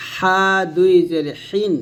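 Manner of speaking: "হা" and "হিন" with a squeezed throat h; pressed "হা". Shown as a demonstration. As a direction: press the h in a long "হা", then "হিন". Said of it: "এটা হা চাপ দিয়ে".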